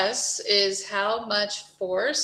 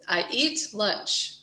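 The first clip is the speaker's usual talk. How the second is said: eat pushed out; teacher stressing eat; 2 semitones higher than usual. Shown as a demonstration. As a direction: hit the word eat. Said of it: "stress the way I stress the words".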